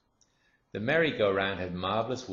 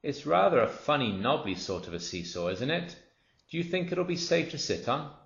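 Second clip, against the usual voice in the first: put-on lightly higher, doubtful child's voice; a child asking warily about the seesaw; curious girl; 6 semitones higher than usual. A narrator's reading. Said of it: "a girl who was older than the others said".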